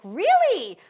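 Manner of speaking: surprised. Retold or imitated. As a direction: pleasantly caught off guard. Ex asked to attend.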